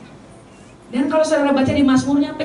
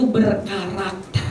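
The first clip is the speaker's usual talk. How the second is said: "berkarakter" drawn out slowly and low; emphatic; 5 semitones lower, 4 dB quieter, much slower than usual. Real, not acted. Preacher drives home the key quality of David, stressing "berkarakter" slowly. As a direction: stretch out "berkarakter" syllable by syllable.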